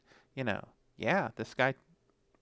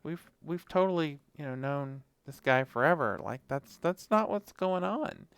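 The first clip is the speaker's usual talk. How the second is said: pleading dog pack. Retold or imitated. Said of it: "all the other dogs are like".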